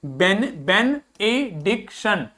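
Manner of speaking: बेनेडिक्शन dragged out slowly, be-ne-dik-shun; slow pronunciation drill. Shown as a demonstration. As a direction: model बेनेडिक्शन slowly, syllable by syllable. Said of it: "अगला देखो". (बेनेडिक्शन बहुत धीरे से)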